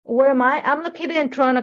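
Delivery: ordinary talk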